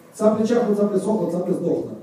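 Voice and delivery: tongue twister. Shown as a demonstration. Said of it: "repeat those tongue twisters after me".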